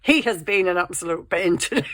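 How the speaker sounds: loud, emphatic complaint. Real, not acted. Vlogger openly griping about the pet, loud and emphatic. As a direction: say it out loud, dropping all secrecy. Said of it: "I don't know why I'm whispering".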